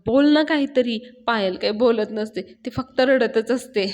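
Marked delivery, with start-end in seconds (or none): 0.1-1.0 mildly exasperated demand; irritated. Acted. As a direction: press for an answer with a touch of annoyance. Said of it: "पाण्या चिडतो आणि म्हणतो". (थोडं चिडून जाब विचारणे)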